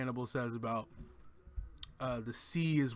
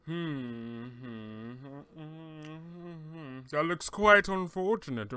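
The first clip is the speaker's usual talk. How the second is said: deadpan Will; 2 semitones higher, slower than usual. Retold or imitated. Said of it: "he's just like".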